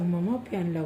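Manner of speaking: put-on feed the toddler the words gently; coaxing prompt. Shown as a demonstration. Mother prompts toddler what to say to mummy, softly coaxing. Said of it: "म्हणावं".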